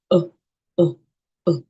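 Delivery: short weak neutral "uh"; each "uh" brief and unstressed, said alone; schwa sound. Shown as a demonstration. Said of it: "There's a sound called the schwa sound".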